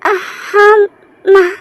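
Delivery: answering through tears; a weepy, broken reply; crying. Acted. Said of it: "तुम रो क्यों रही हो". (रोते हुए जवाब)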